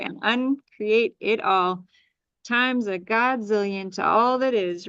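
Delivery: steady, rhythmic litany of release; solemn spoken ritual for letting go; clearing incantation. Acted. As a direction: chant the list like a ritual clearing.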